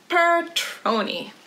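ordinary delivery

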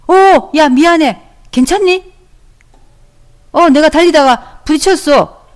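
startled apology. Acted. Teacher as child who bumped a friend, startled and apologetic. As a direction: act out an apologetic check on a friend.

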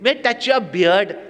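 lightly voiced child asking; childlike asking. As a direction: ask like a child. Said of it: "She's like a child in front of Gurudev".

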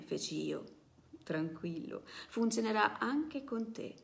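steady storyteller reading, voicing the characters lightly; reading a novel aloud. Presenter reading a novel excerpt to the audience, storytelling voice. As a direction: read the passage like a story for an audience.

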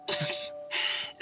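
breath of a laugh, no voice; soft chuckle. Acted. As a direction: chuckle quietly before admitting it. Fond exasperation about a boy.

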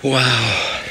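panting after the chase; short of air, catching breath. Real, not acted. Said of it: "I'm out of breath there".

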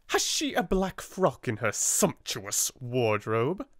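slow, bitter irony. Acted. Headmistress asks her sister in bitter irony. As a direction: sneer at the word sumptuous. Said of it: "in bitter irony".

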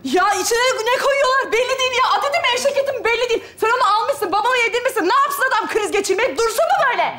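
touchy, accusing rant; mildly heated scolding; irritated tirade. Acted. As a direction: lay the blame on him in one running complaint. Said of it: "Bu kız niye bu kadar sinirli ya?".

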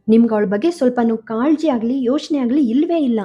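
loud, fast furious outburst, fading at the end; angry shout. A narrator's reading. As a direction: blast them, then ease off a little. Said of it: "ಅವಳ ಕೋಪ ಕಡಿಮೆಯಾಗಿರಲಿಲ್ಲ". (ಜೋರಾಗಿ ಕೋಪದಿಂದ ಕಿರುಚುತ್ತಾ)

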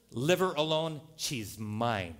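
lightly put-on Mexican accent; punchline in a mock Mexican accent, dropping at the end. Chihuahua claims the collie, mock Mexican accent. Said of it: "says in a Mexican accent".

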